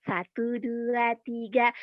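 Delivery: slow counting; slow careful count. Shown as a demonstration. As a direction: count slowly, each number apart. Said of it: "tiga gitu".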